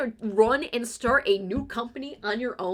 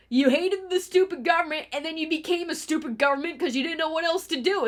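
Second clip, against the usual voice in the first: Rick and Morty quote; 6 semitones higher than usual. Retold or imitated. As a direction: toss off the cartoon line in a light mock voice. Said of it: "the line from Rick and Morty of".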